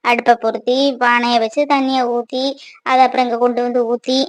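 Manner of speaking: low-key, softened muttering to oneself; weary grumbling. Acted. Mother alone listing hot-water chores, weary grumbling. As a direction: list the chores wearily under your breath.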